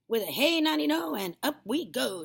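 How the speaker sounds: high, loud, swooping cheer; gleeful shout. A narrator's reading. Grandma shooting upward, gleeful shout. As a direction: sing out with glee. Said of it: "she shouted".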